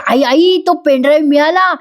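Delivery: lightly acted excited announcement; excited calling out. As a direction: call to mom with good news. Daughter runs in with news.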